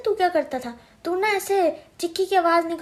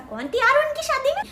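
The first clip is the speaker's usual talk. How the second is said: sarcastic retort; 12 semitones higher than usual. Retold or imitated. Aunt retells her own retort.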